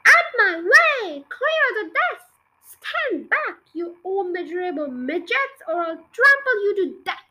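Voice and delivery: loud, high, slow wild shouting. Acted. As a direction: bellow it from a galloping pony.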